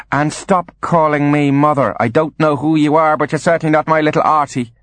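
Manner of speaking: put-on disown the boy in a high, emphatic voice; crafty, indignant high-voiced mother; cold rejection. Confused mother rejects son.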